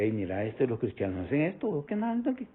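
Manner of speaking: low-key, hushed aside imagining the inner voice. Acted. Preacher voicing the inner voice of a dancing Christian, hushed. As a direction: drop the volume for an imagined voice within. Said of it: "la voz ahí que le dice".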